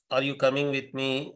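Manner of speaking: "Are you coming with me" asked evenly; plain question wording, "Are you coming with me"; question form. Shown as a demonstration. Lecturer gives students an example question, question form. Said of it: "If I say".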